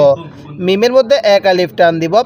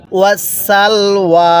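long drawn-out chanted recitation, every vowel stretched; slow Quran recitation; much slower than usual. Shown as a demonstration. Teacher models the verse for students, slow drawn chant. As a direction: intone it slowly, as the teacher's model reading. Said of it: "এরকমভাবে পড়ব".

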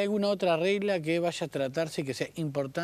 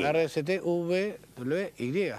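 recitar el abecedario; slower than usual. Shown as a demonstration. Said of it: "O P Q".

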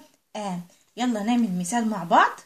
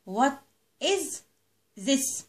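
model question; 3 semitones higher, much slower than usual. Shown as a demonstration. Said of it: "يبقى هنقول".

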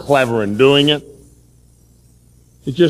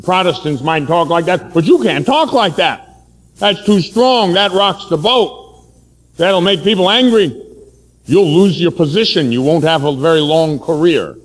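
higher, insistent imitation of an older priest; scolding Monsignor; 4 semitones higher than usual. Monsignor warning a young preacher, imitated scolding. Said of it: "what he was saying is".

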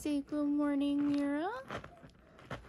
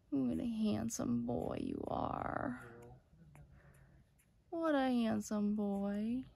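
slow cooing. Real, not acted. Cooing over puppy.

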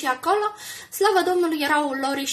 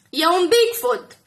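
loud, slow shriek; shrieking accusation; 3 semitones higher, 10 dB louder, slower than usual. A narrator's reading. Drunk woman screams at Alice in front of cameras, shrieking. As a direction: point and scream it out. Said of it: "țipă femeia".

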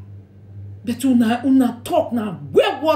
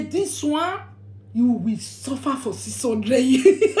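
mock curse; slower than usual. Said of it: "Even if this saga go say".

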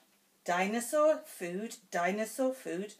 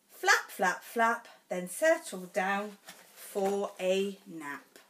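bold stomp. Acted. Reads picture book to child.

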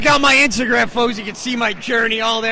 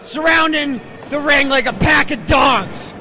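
higher, louder play-by-play call; excited commentary; 5 semitones higher, 4 dB louder than usual. Real, not acted. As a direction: call the run-in with rising alarm. Goons surround the ring.

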